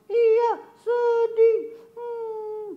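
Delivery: very high puppet voice with a mock whimper; a little puppet pretending to cry; sad puppet voice. Puppet Kobun admitting to the host he is sad, mock crying.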